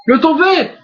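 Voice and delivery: excited. Acted. Calling a pin count.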